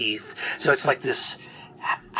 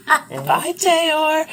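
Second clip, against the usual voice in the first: higher, louder mocking farewell; Skinner's goodbye; 6 dB louder than usual. Skinner bidding the paladin a cheeky higher loud goodbye. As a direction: wave him off cheekily. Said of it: "He looks over and says".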